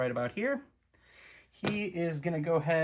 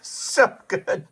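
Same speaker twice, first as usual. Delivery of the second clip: amazed; 8 dB louder than usual. Real, not acted. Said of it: "That's pretty darn good".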